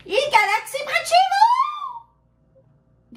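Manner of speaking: high, slow, drawn-out title call; announcer voice. Acted. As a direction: announce it like a trailer. (annonce de bande-annonce, lente et aiguë)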